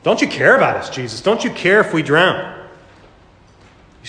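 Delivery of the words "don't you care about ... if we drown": mock panic. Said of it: "and they're panicking".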